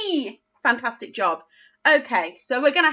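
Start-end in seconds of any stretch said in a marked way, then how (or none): 0.1-0.4 a bright shouted sound; teacher leading a class shout. Shown as a demonstration. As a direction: call it out loud. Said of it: "Let's shout it really loudly".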